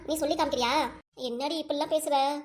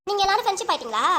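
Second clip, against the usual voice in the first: put-on child's whine; 5 semitones higher, 5 dB louder than usual. Child voiced arguing with grandma.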